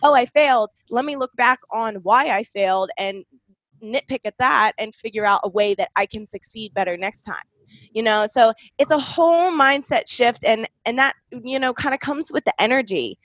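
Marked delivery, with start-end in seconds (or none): 0.0-7.5 bright, can-do restart; upbeat. Shown as a demonstration. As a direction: bounce back eagerly. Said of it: "But if you sit there and say".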